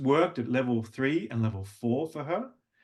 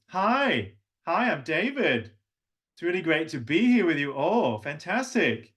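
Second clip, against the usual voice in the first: higher, bright greeting pitch; level two voice; 5 semitones higher than usual. Shown as a demonstration. Coach showing the class the higher level two. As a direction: lift the voice up behind the eyes. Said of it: "This is level number two".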